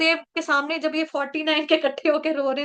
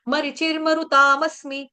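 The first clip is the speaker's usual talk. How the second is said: verse recitation. Acted. Quotes Gita verse.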